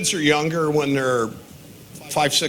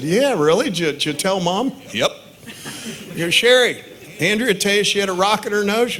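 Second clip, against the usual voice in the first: mock incredulous; 7 semitones higher than usual. Dad quizzing his wife Sherry about the rock, mock incredulous. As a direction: press her like you can't believe it, playing it up.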